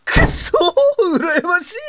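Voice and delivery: high, slow jealous wail; envious wail. Acted. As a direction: wail it out in envy.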